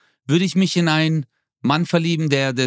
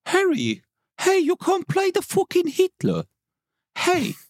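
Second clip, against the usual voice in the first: mock scolding. Mock scolding Prince Harry.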